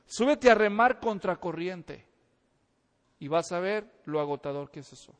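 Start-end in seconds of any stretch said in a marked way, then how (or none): 0.1-2.1 slowed down, laughing through the words. Acted. Preacher teasing the congregation, laughing slowly. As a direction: tease them with a laugh. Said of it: "preacher challenging the crowd".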